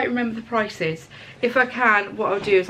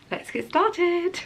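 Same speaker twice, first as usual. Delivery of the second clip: excited; 9 semitones higher, much slower than usual. Real, not acted. Upbeat vlog intro sign-off.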